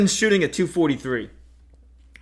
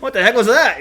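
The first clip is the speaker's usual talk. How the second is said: baffled voice through laughter; laughing; 7 semitones higher, 8 dB louder than usual. Retold or imitated. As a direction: laugh while voicing a confused deer. Voicing the baffled deer, laughing.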